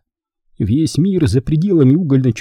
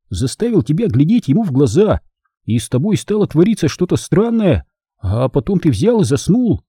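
put-on excited boy; 6 semitones higher than usual. Benjamin recounts excitedly.

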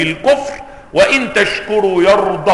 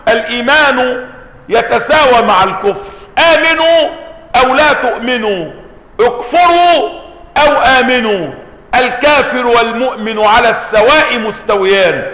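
imagined divine proclamation; 2 semitones higher than usual. Retold or imitated. Preacher imitating what critics claim God says, mock proclamation. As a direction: voice an absurd ruling, lifting the commands. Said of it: "وكأنه يقول".

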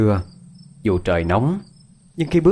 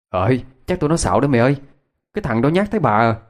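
put-on clamoring kids; 3 semitones higher, faster than usual. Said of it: "Đám nhỏ nhao nhao lên".

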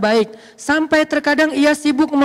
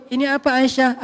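gentle. Shown as a demonstration. Prophet speaking to his wife Aisyah, gently. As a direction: ask it gently, without any shouting. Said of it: "ngomongnya lembut".

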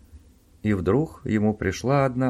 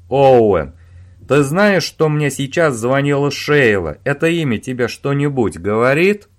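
loud, accusing demand; angry interrogation; 4 semitones higher, 8 dB louder than usual. Acted. Owen confronting Robin about Sheila, angry and loud. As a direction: grill him, loudly.

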